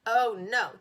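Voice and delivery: loud shouted no; boy shouting at classmate. A narrator's reading. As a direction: shout him down. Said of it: "Jimmy shouted".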